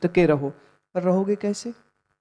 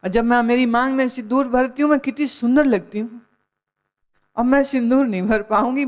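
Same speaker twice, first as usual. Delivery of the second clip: higher, fast mock-whiny wife; hammed-up vain widow; 3 semitones higher, faster than usual. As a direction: preen over the lost sindoor, fast. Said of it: "खैराती की माँ ने मुंह ऊपर किया और कहते".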